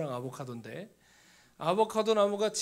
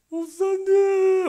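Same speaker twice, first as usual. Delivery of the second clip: high, drawn-out wail of a cry; 13 semitones higher, 11 dB louder, much slower than usual. Retold or imitated. Student bursting into tears over the phone, high and drawn-out. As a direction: break into tears on the word. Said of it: "하면서 울기 시작하는 거예요".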